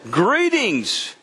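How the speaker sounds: "Greetings" said solemnly in a changed voice; serious angel greeting. Retold or imitated. Angel greets Mary, grave and solemn. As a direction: make "Greetings" grave and weighty. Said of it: "I mean, seriously".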